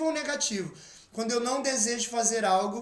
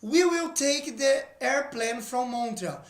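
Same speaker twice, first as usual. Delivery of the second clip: slow model reread; slower than usual. Shown as a demonstration.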